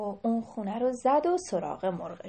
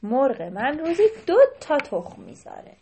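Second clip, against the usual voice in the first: insisting loudly; 3 semitones higher, 8 dB louder than usual. Acted. Ali Gholi insisting loudly.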